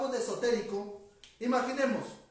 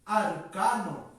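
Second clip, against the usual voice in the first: arcano dwelt on slowly and lower; slow emphasis; 4 semitones lower, much slower than usual. Shown as a demonstration. Teacher sharing a favourite word, slow arcano. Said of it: "una palabra ... que me encanta".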